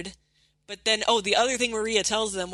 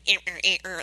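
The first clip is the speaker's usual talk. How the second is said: short repeated zigzag noises; imitated scribbling noise; much faster than usual. Shown as a demonstration. Podcaster mocking badly drawn metal teeth, scribble noises. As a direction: voice a crude back-and-forth scribble.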